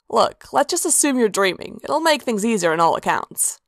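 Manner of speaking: easy, offhand persuasion; lightly voiced Sanguine shrugging it off.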